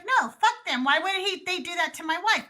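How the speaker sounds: retold indignation. Retells husband's indignant refusal.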